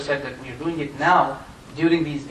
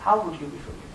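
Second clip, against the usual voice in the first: softer, hushed self-rebuke; quiet self-reproach; 6 dB quieter than usual. Retold or imitated. Fudayl rebukes himself at Arafah, hushed. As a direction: murmur it to yourself in shame. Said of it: "He said".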